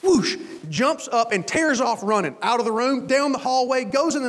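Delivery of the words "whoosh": imitated whoosh of flung liquid; drawn-out splash sound effect. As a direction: let out a long whoosh. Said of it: "comes up with this thing and goes".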